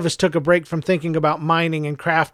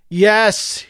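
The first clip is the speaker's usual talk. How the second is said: through gritted teeth; 4 semitones higher than usual. Acted. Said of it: "he answered through gritted teeth".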